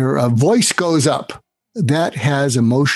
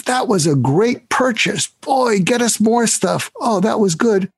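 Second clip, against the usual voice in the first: a boss gushing with praise, pitched much higher; pleased boss; 8 semitones higher than usual. Retold or imitated. A boss praising the buyer's purchase, pleased. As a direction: ham up the delighted boss. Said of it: "their boss says".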